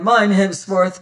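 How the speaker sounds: loud, fervent declaration; man claiming his love aloud; passionate cry. Acted. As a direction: proclaim it to the pursuers. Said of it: "I cried".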